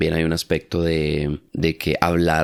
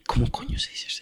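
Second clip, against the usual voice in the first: squeaky, much higher and softer frantic thought; panicked inner thought; 6 dB quieter than usual. Retold or imitated. Learner panicking mid-conversation, squeaky high inner voice. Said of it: "fase de pensar".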